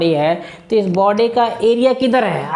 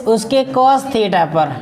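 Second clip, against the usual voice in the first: slow emphatic answer; much slower than usual. Shown as a demonstration. Teacher answers own question slowly.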